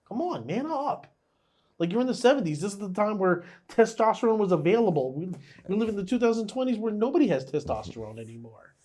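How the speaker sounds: ranting. Real, not acted. Ranting at the character.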